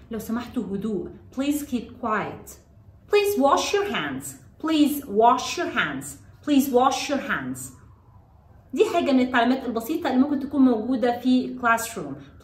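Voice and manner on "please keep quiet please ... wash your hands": very slow, drawn-out instruction with falling ends; slow model phrase. Shown as a demonstration. Teacher models a classroom instruction for children, very slowly. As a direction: space out each word for learners.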